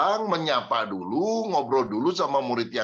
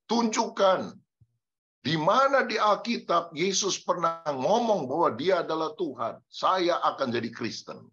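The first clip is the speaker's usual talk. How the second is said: high, mocking dare; imitating a preacher of another faith daring the congregation; challenging preacher; 4 semitones higher than usual. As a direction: throw down the challenge like a street preacher. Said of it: "Dia bilang".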